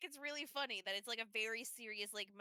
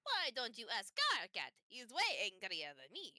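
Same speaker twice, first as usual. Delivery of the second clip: cartoony Dracula voice; 3 dB louder than usual. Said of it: "you're a cartoony Dracula right now".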